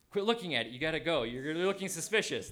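acted-out nervous self-scolding; urgent self-warning. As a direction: urge yourself away before you're caught. Retold urgent warning to himself.

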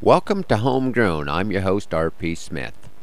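rough, croaky morning voice; a bit hoarse and croaky. Real, not acted. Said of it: "have left me a little croaky".

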